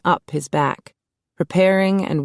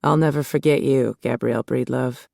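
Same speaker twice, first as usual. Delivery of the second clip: low, fading on "Gabrielle Breedlove"; from deep in the chest; 3 semitones lower than usual. Acted. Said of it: "He spoke from deep within his chest".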